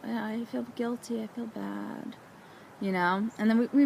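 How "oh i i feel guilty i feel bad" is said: softer, quietly guilty aside; guilty murmur. Retold or imitated. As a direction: confess it under your breath. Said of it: "I'm like".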